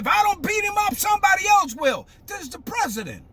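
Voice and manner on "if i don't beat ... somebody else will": higher-pitched retold threat; imitating the president's threat. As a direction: mimic a rally speaker threatening a protester. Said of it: "He's talking. He said".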